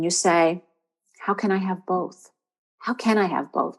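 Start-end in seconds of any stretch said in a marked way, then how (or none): 2.8-3.8 CAN leaned on in a soft question; stress on CAN. Shown as a demonstration. Coach showing the journal question, stress on CAN. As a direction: put the emphasis on the word can. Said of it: "With the emphasis on the can".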